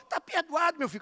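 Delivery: a hint of a funny high little voice; Abner Ferreira's little voice. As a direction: lightly mimic the bishop's funny voice. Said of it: "Com aquela vozinha dele". (imitando de leve a vozinha engraçada do bispo)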